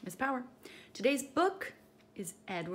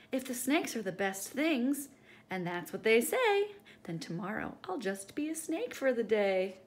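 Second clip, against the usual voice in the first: grinning Edward; 4 dB louder than usual. Acted. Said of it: "he grinned as he said".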